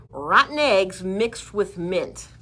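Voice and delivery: slow, disgusted drawl. Real, not acted. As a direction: pull a face at the smell. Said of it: "how good this deer repellent smells".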